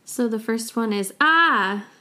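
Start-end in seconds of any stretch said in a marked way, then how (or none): 1.2-1.9 a short alarmed ah as a call for help. Shown as a demonstration. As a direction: cry ah like you need help. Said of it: "the translation is help".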